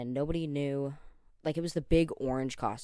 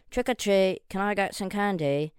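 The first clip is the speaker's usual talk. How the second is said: put-on much higher, louder childlike voice; little kid voice; 6 semitones higher, 9 dB louder than usual. Trick-or-treating at a stranger's door, high kid voice. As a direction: pass yourself off as a small child. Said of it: "I talked like this".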